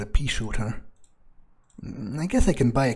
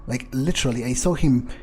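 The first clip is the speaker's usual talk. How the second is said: excited disbelief; 3 dB louder than usual. Real, not acted. Amazed at guard vanishing.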